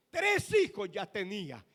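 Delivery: ordinary talk, nothing marked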